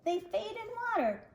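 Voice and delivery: a hint of the brooding shark king; shark king, menacing.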